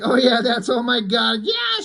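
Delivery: mock scream of pleasure, rising to a high yelp. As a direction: belt it out, comic ecstasy. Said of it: "she screams".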